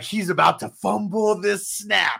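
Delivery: gleeful jinx call. Retold or imitated. Retelling his jinx on Tony Romo, gleeful loud call. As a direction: crow it loudly, high and excited.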